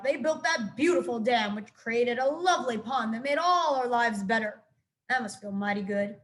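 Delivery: lightly voiced old groundhog, gruff-ish lecture; a hint of a crusty old groundhog. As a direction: speak like a grumpy old-timer.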